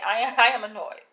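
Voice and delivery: real annoyance breaking into a laugh; annoyed laugh. Real, not acted. Vlogger owning up to her irritation, annoyed laugh. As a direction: laugh while insisting on the irritation. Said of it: "yes, I am annoyed".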